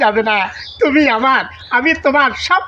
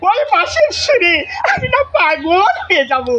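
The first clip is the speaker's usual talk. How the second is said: laughing; 6 semitones higher than usual. Acted. Swooning lover, laughs.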